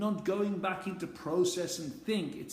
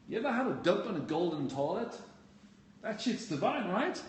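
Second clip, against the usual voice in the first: casual delivery; 3 semitones higher than usual. Shown as a demonstration. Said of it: "it's the delivery".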